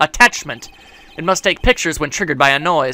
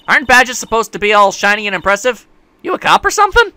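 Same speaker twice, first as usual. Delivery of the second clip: Southern woman; 4 semitones higher than usual. Acted. Photographer questions sceptically.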